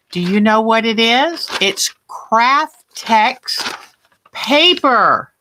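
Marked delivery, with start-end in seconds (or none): 1.6-5.3 slow, deliberate naming of "Craft Tex paper"; teacher naming a product slowly; slow and clear. Shown as a demonstration.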